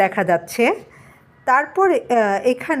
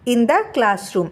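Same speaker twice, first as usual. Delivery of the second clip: very slow, word by word English reading; slow dictation read; much slower than usual. Shown as a demonstration. Teacher reading the textbook to students, very slowly. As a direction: read each word out so the class can follow. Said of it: "কি দেখাচ্ছে দেখো".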